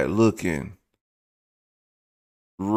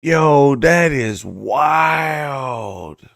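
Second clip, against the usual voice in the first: amazed exclaim; 4 semitones higher, much slower than usual. Real, not acted. Reacting to the surgery video.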